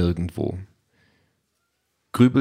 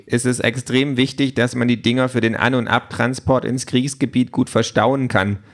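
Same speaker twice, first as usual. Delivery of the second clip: higher, matter-of-fact machine lecturer; lightly voiced opinionated gadget; 4 semitones higher than usual. Talking tablet justifies the folding robot, lightly voiced know-it-all. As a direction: explain it like a small military expert. Voices Pink explaining military logic.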